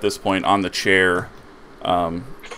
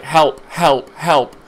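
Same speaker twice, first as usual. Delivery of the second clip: high panicked sheep cry; 8 semitones higher, 7 dB louder, much slower than usual. Acted. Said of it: "you're still like".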